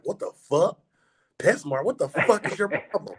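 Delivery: high, mocking outraged voice; outraged reptile keepers. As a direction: mimic shocked hobbyists with a high, put-on squeal. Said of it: "They was like".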